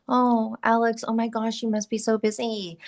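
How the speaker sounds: pitying tone that sinks down; mocking people who pity her busyness; mock sympathy. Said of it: "they kinda go down like this and they talk like this".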